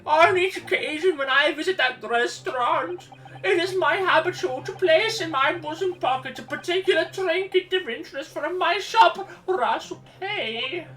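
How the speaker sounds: put-on old man voice. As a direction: ham up a fussy old man. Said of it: "that old man voice".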